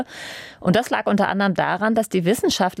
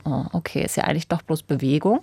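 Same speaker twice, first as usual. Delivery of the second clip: leicht enttäuscht; 2 semitones lower than usual. Retold or imitated. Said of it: "Dann war ich so ein bisschen so".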